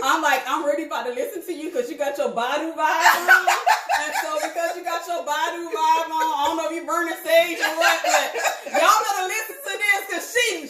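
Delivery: can't stop laughing while teasing. Real, not acted. Teasing her cohost about her singer-inspired vibe, laughing hard.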